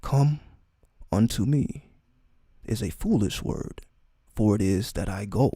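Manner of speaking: measured recital with long pauses; solemn scripture reading. Acted. Reading a sacred chapter to listeners, solemn and measured. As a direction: read it out deliberately, phrase by phrase.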